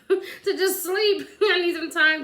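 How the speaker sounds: giggling through the words, slow and drawn out; laughing while saying it. Real, not acted. Laughing at herself while telling viewers she needs sleep, giggling. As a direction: let the laugh spill into the words.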